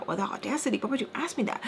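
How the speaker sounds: softened mock affront; mild upset. Teller a little upset with the baby, soft mock indignation. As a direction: keep the indignation small and under the volume. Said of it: "getting a little bit upset with the baby".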